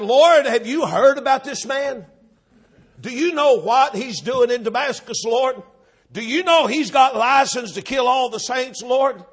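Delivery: acted objection, pressing each question; alarmed protest. Ananias warning the Lord about the man in Damascus, protesting. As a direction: plead your case, voice lifted.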